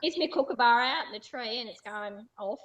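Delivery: hammed-up Australian accent; broad Australian. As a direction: play up the Aussie cliche. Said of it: "talk a lot of Australian slang".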